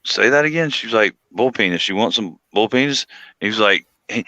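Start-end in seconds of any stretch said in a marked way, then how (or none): 0.1-0.7 high-pitched disbelieving request; retold bewilderment, voice raised high; baffled. Baffled listener in retold story. 1.3-3.1 down-home South Carolina twang, lightly imitated; imitated country South Carolina accent; thick South Carolina accent. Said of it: "got thick accent".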